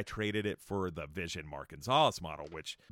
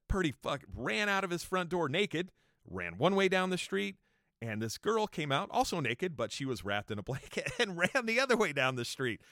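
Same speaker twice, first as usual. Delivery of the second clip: normal talking voice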